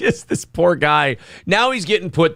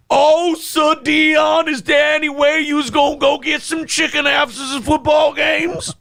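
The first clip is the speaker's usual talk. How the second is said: much higher, shouted mock Southern accent; loud mock Southern accent; 11 semitones higher than usual. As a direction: yell a hammed-up bayou Southern accent. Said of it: "Talk the way I told you to talk".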